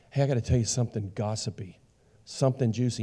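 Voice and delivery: low, hushed, quick aside; confidential gossip. Acted. Gossip coming to you with juicy news, hushed and confidential. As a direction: lean in and share it softly, like a secret. Voicing a gossip approaching someone.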